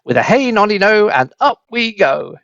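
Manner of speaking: high, playful singsong; singsong shout. A narrator's reading. Grandma shouts a singsong rhyme as she rises. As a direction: chant it like a mad nursery rhyme. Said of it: "she shouted".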